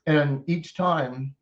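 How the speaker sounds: talking around a sunflower seed; chewing mid-sentence, slow; mouth full. Real, not acted. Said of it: "I was eating a sunflower seed".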